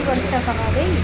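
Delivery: a lightly put-on funny voice; mock voice on the repeat, barely changed. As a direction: repeat it in a silly altered voice. Repeats line in odd voice.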